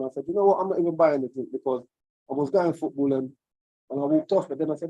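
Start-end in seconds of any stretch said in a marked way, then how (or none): 0.3-1.5 frustrated. Retold or imitated. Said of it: "And I got frustrated".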